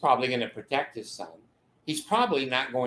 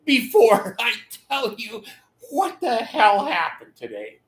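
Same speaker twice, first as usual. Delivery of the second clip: higher, laughing husband; half-laughing, a bit louder; 8 semitones higher, 4 dB louder than usual. Retold or imitated. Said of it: "And he said".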